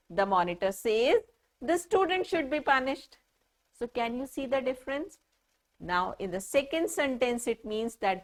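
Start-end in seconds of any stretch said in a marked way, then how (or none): 0.1-3.2 one pause, after "says", then the quote straight through; the monitor is the speaker, so break only after "says". Shown as a demonstration. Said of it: "But in the second, I am saying".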